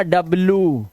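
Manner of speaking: डब्ल्यू as a falling "dab-loo"; wrong pronunciation. Shown as a demonstration. Teacher repeating the mistake to avoid, wrong pronunciation. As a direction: drop the y glide from डब्ल्यू. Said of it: "कभी भी डब्ल्यू मत बोलना".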